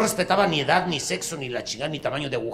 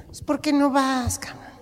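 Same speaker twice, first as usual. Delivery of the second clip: loud meddling neighbor; 12 semitones higher, 8 dB louder than usual. Acted. Neighbor shouts during quarrel.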